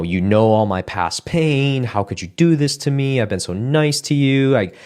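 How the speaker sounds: hurt, rising complaint; angry venting. Retold or imitated. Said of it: "something to the effect of".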